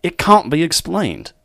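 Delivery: hammed-up Australian lover explaining love; Australian accent. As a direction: play an Australian gentleman in love, unhurried. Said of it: "Australian it is".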